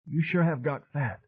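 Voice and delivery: high, dazed Southern woman rambling on; wounded madwoman. A narrator's reading. Madwoman telling a singer about her grief, high and wounded. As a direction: let her drift, high and hurt. Rona voice again.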